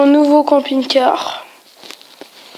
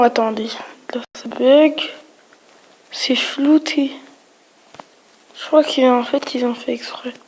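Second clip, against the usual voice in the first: whispering; 4 dB quieter than usual. Real, not acted. Puzzled at blurred Google Maps image.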